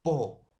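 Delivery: "Poeta" broken into po, E, ta; syllables with stressed E. Shown as a demonstration. Teacher pointing out the tonic syllable, word split up. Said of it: "la mayor fuerza de voz".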